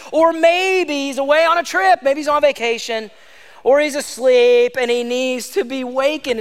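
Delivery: mocking. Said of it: "Elijah began mocking them".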